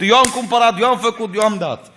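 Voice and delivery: high, loud, hammed-up bragging, stress on am; mock boastful giver. Preacher mocking a boastful giver, high and loud. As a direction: puff up like a showy giver.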